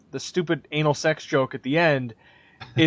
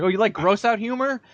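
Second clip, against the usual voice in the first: mock eager exec; 5 semitones higher than usual. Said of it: "So it's like".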